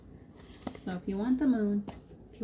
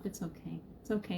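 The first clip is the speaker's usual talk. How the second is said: soft and soothing, the first much softer; reassuring; 7 dB quieter than usual. Real, not acted. Telling viewers their meltdowns are fine, softly reassuring. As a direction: gently comfort a friend who is upset.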